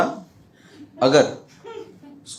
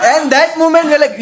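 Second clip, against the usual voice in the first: drawn out; 12 semitones higher, 6 dB louder, much slower than usual. Real, not acted. Comic emphasis, slow drawn out.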